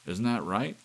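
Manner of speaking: loud, high insistent demand; lonely husband demanding an answer from the clock. A narrator's reading. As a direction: shout it, daring it to answer. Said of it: "he demanded".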